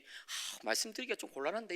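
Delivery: soft, hesitant evasion after a hushed breath; reluctant hedging. Retold or imitated. Pastor avoids telling about the member's past, reluctant hedging. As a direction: imitate someone backing away from an awkward question, quietly. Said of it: "이러면서 막 빠는 거예요".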